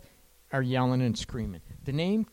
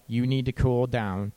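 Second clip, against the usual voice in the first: plain "You need to cool down." with blame on "You"; blaming. Shown as a demonstration. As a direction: point the finger with "You". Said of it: "You're coming across ... putting all the blame".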